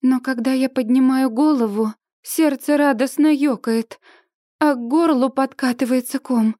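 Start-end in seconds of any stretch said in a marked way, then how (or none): none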